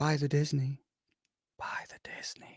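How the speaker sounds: very hushed, barely voiced whisper. A host whispers an aside to the audience: whispering. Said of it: "I'm whispering".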